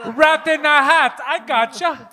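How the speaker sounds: high, drawn-out imitation of a friend; hammed-up mock voice in on the secret; friend impression. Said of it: "That's my impression of him".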